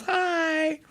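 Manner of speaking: a hint of a sweet oblivious Groot; innocent Groot greeting. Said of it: "And he goes".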